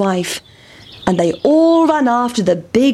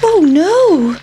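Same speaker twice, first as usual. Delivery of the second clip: high, alarmed little pancake voice; a frightened pancake about to be eaten; pancake's voice; 9 semitones higher, 5 dB louder than usual. Acted. Pancake fearing the hungry boys, high alarmed voice. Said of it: "thought the pancake".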